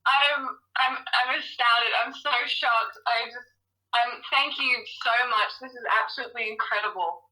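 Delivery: halting start, then a quick rush; stunned and welling up with happy tears; tearful shock. Real, not acted. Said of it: "I can hear the tears again through the phone".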